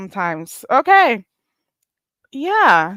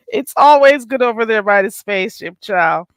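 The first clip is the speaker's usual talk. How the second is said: louder repeat; 4 dB louder than usual. Shown as a demonstration. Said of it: "You know, it's always good over there by the spaceship".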